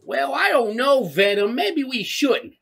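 high, slow, hesitant whine; a hint of a timid whiner; whiny Eddie Brock. Tom Hardy's Eddie Brock, mocked by a friend as whiny. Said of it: "Perfect, perfect impression".

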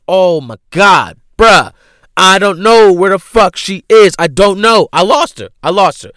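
loud, high, exasperated mock panic; retold freak-out. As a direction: wail it in hammed-up desperation. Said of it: "I'm freaking out".

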